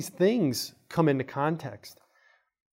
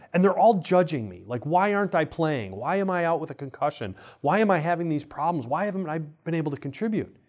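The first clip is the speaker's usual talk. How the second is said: raised, aggrieved venting of an injured player; frustrated athlete retold; 4 semitones higher than usual. Injured hockey player venting to his doctor, higher and aggrieved. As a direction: let the complaint pour out, pitch up. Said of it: "And he goes".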